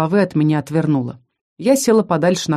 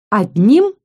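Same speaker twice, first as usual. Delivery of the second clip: warning; 3 dB louder, much slower than usual. Acted. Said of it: "предупредила я".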